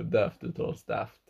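DAFT said "deft", slowly; British pronunciation. Shown as a demonstration. Co-host concedes how a Brit says it, slow "deft" for DAFT. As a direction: spell out DAFT slowly with an e vowel. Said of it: "En britt säger nog det".

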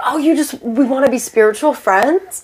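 put-on naive surprise, rising at the end; playing dumb. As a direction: ask it as if clueless. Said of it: "I play it so dumb".

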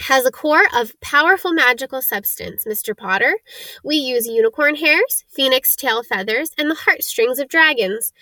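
a hint of a proud craftsman instructing; lightly voiced old wandmaker, explaining. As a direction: explain the craft to a young customer, lightly in character.

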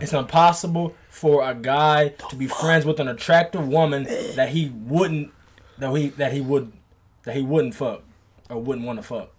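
slowly spelling out the statement; slow, deliberate quote. Shown as a demonstration. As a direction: read it out word by word. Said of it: "the statement that he just said was".

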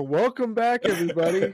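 high, hammed-up anchor welcome; news anchor voice. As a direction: mimic a TV news host opening. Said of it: "you sound like a news anchor".

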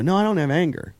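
high-pitched, heated denial; retold yelling. Dad denying anger issues to a driver, retold indignant yelling. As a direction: protest indignantly, acting out the argument. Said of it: "and I start yelling".

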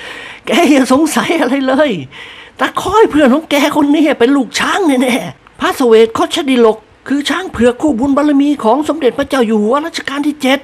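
a hint of an amused lord explaining; old lord, amused. A narrator's reading. Old lord amused, telling the servant about the elephant. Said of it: "ด้วยเสียงหัวเราะ".

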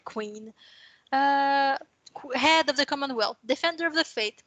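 reads the royal proclamation aloud in a French-accented English, a touch formal; mediocre English accent. Shown as a demonstration. New lady reads her title deed to the host, French-accented English. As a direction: pomp of a royal decree through a heavy Quebec French accent. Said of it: "mon accent anglais est quand même très médiocre".

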